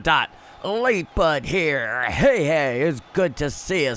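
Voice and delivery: slow, drawn-out announcer call; grand arrival announcement, words held long; mock announcer. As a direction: stretch out the name like a ring announcer. Announces a viewer entering the chat.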